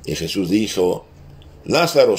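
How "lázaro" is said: higher, louder call of the name. Retold or imitated. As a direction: call Lazarus out of the tomb. Jesus calls Lazarus from tomb. (llamada en voz alta)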